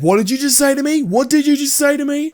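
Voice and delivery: very high-pitched, incredulous mock outrage; affronted Karen. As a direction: repeat it as an offended customer, voice shooting up. Retold Karen affronted by manager's remark.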